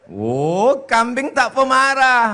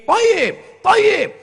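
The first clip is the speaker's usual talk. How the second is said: much higher, ringing cry of thayyib; praising cry; 11 semitones higher than usual. Retold or imitated. Crowd cheering the qari, high and ringing. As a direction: call out thayyib like an approving listener. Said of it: "kalau ada qari".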